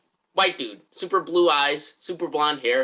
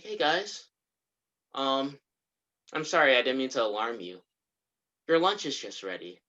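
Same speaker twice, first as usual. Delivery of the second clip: softly voiced eerie host, understated; mildly creepy, subdued politeness; super spooky; 4 dB quieter than usual. The host calling guests to lunch, super spooky. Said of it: "in that tone, super spooky".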